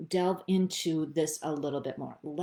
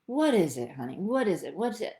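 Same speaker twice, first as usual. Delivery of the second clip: gentle coaxing, a bit louder; a therapist coaxing her own feelings out; coaxing herself; 4 dB louder than usual. Shown as a demonstration. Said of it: "I talk to myself like I'm doing a session".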